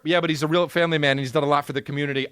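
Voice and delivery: quick, reasonable interjection; hurried defence. Acted. Defender answering the cancel crowd about a family man, hurried. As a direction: rattle off his good points.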